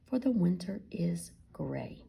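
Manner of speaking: whispered quiet line; simple, quiet. Acted. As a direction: say it simply and softly. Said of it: "answered Frederick simply".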